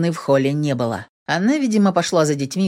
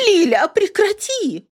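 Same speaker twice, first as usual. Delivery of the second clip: much higher pleading shout; 14 semitones higher, 3 dB louder than usual. A narrator's reading. Yana shouts at Lilka to stop. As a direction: yell at her to stop.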